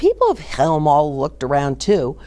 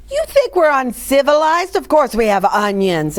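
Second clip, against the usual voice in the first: offended; 7 semitones higher than usual. A narrator's reading. Villagers offended.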